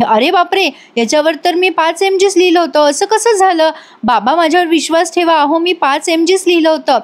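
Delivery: a hammed-up, panicky plea to her father; panicked protest. Bayo panics over the wrong dose.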